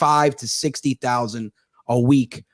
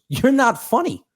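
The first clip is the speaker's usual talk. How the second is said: high-pitched imitation of an upset wife; lightly acted tearful protest; mock hysterical crying; 11 semitones higher, slower than usual. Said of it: "She starts crying hysterical".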